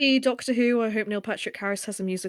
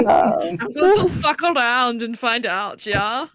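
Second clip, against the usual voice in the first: playful villain; 6 dB louder, slower than usual. Acted. Playing Toy Maker villain.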